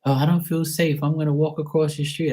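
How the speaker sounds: high, prissy mock stranger; nervous passerby. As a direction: whine it like a scared pedestrian.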